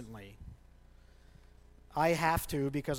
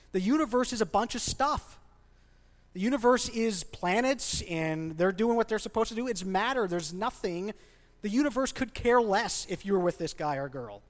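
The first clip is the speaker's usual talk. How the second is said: passionate rant; 5 semitones higher than usual. Real, not acted. Pastor ranting passionately at the congregation about the universe. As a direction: build up passionate disbelief at the idea. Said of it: "me being passionate about how ridiculous this is".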